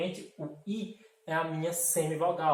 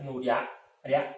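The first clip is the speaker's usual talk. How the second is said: "riá, riá" drawn out slowly, stress on the A; patient teacher sounding out a syllable; slow syllable demo; 3 semitones lower, slower than usual. Shown as a demonstration. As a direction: linger on "riá" to show the strong A. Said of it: "Percebe que o A também é muito mais forte".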